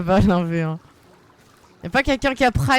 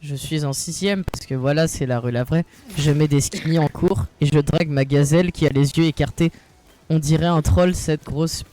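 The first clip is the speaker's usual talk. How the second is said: mocking kid voice; 6 semitones lower than usual. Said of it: "moi, c'est Mister Sprite".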